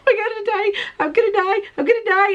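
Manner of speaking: hammed-up fear on the curving bridges; mock dread. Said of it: "and I'm like".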